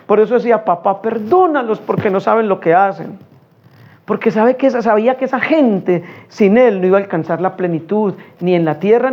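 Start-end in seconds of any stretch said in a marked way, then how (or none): 0.6-3.2 a quiet, grieving echo of the same words; soft sorrowful plea. Retold or imitated. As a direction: let "perdónalos" sink gently, not raised. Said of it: "pero Jesús ahí llorando". (súplica suave y dolida, sin subir la voz)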